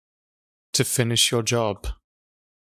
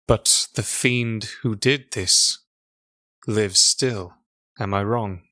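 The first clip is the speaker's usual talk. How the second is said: measured mystic stranger. Acted. NPC Rook speaks slowly.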